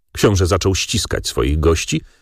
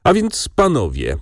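higher-pitched stirred appeal; moved, emotional; 8 semitones higher than usual. A narrator's reading. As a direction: address the gentlemen with mild emotion. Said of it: "ciągnął wzruszony książę". (wzruszonym, podwyższonym głosem)

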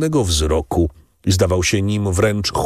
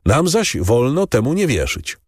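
bitter; 6 semitones higher than usual. A narrator's reading. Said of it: "odrzekł z goryczą Kadrus".

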